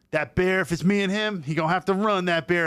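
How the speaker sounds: imitating the veteran. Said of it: "He literally is like".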